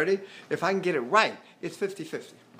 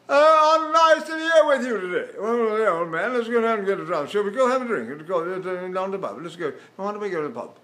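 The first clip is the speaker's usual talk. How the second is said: mock British accent; 2 semitones higher than usual. Shown as a demonstration. Teacher inviting an old chum to the pub, hammed-up British accent. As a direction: open with a big British greeting, then settle.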